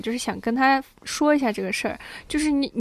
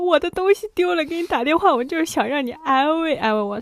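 higher-pitched pleading, imitating her upset self; retold tearful plea; 5 semitones higher than usual. Daughter begging dad for comfort on the phone, retold upset plea. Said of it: "我就哭了".

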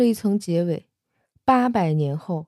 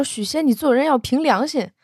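furious; 6 semitones higher than usual. Acted. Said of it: "小青也气急了".

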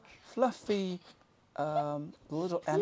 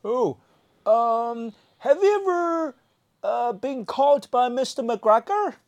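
lightly voiced Pooh; 7 semitones higher, 4 dB louder than usual. Voicing Pooh asking questions.

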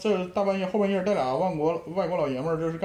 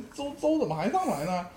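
put-on Northeastern accent; 3 dB quieter than usual. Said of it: "就是那个味儿了".

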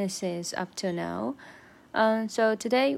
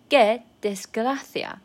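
dismayed demo; 3 semitones higher, 6 dB louder than usual. Shown as a demonstration. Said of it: "demo of phrase".

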